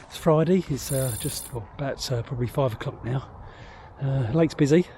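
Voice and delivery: slightly winded after rushing; out of breath. Real, not acted. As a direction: talk while catching your breath. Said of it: "I'm a bit out of breath".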